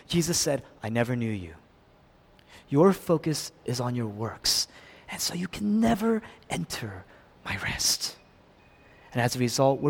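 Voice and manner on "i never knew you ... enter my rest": low, soft, measured verdict; grave rejection. Acted. Jesus refusing rest to works-focused people, low and grave. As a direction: answer quietly, sinking at the end. Jesus answering the protest, voiced.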